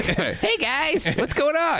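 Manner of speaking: Shane Black impression. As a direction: chirp the greeting like an overly friendly actor. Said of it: "I could do Shane Black".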